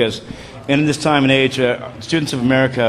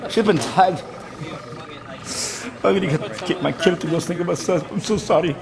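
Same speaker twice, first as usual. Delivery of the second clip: high, mock-sorrowful Scottish voice; Scottish accent; 5 semitones higher, 4 dB quieter than usual. Commentator mourning the tagged monster, Scottish accent. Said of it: "Can you do a Scottish accent?".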